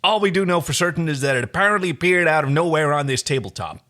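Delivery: lightly voiced hero, thinking aloud; John voice. John summing up the mystery, lightly voiced. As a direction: lay out the facts casually. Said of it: "We're just gonna do some voices".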